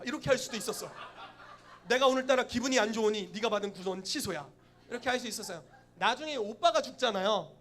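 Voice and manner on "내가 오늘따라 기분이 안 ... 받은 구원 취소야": loud, petulant pronouncement; mock-imperious outburst; moody decree. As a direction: cancel it loudly on a whim. Acting out a moody, punishing master.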